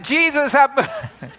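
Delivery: retold insistent cry. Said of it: "I said".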